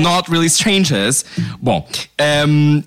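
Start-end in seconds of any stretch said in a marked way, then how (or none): 0.0-1.2 slow, higher English in a British accent. Shown as a demonstration. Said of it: "queres que eu faça com sotaque britânico".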